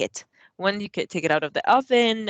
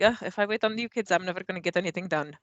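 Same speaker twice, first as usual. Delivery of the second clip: put-on Russian accent; faster than usual. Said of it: "I have an accent now for them, and it sounds Russian".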